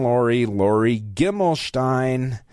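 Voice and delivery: slow, tentative go at Gimmelstein; careful name attempt. Real, not acted. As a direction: sound out "Gimmelstein" slowly, trying to get it right. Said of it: "let me try again".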